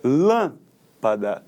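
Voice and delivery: "lâmpada" very slow, "lâm" held then a break; stress on first syllable. Shown as a demonstration. Teacher reviewing proparoxytones, long first syllable in "lâmpada". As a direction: hold "lâm", pause, drop "pada" low. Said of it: "a sílaba tônica está na antepenúltima".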